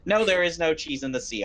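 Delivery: flat matter-of-fact statement; factual. Acted. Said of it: "I'm saying this now factually".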